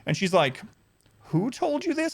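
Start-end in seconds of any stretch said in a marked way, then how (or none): 1.3-2.1 high, put-on snooty voice; mock her as prissy and superior; mocking condescending manager. Manager questioning the customer, in a high mocking voice.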